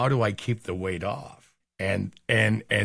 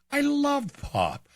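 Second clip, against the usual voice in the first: excited gushing; 10 semitones higher than usual. Real, not acted. Gushing about his favourite drinks.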